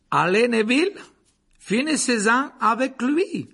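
loud, high urging. A narrator's reading. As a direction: egg the pupil on loudly. Lupin urges Neville on. (encouragement fort et aigu)

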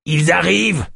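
rising alarm, first cry; alarmed warning. Acted. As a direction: call out the danger. Yosp warns of approaching tribe.

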